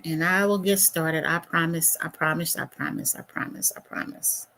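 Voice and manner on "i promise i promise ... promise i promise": each one softer until it becomes a whisper; fading promise. Real, not acted. Host stalling for viewers, promising as the voice fades. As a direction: trail off to a whisper.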